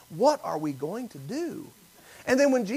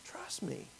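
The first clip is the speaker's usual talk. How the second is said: breathy whisper of "Trust me", much softer; 3 semitones lower, 20 dB quieter than usual. Retold or imitated. God's inner voice whispering to the worried son, hushed whisper. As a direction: let "Trust me" fade to a bare whisper. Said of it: "still, small voice in my spirit say".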